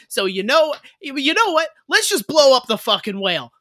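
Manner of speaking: put-on angry worker in a Massachusetts accent. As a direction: rant like a Boston working man. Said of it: "slipped into a Massachusetts accent".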